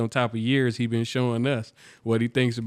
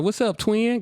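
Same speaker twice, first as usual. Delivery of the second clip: a hint of hood talk, pitched up; hood slang; 9 semitones higher than usual. Mexican auditioner greeting Drewski, light hood voice. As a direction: greet him like a homie. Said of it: "Got to talking like a hood nigga".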